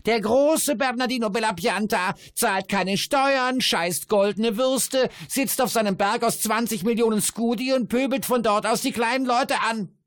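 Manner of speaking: high, loud jeering rant; ranting dwarf voice. A narrator's reading. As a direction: rail at the rich man, crowing. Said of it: "erregte sich der Zwerg".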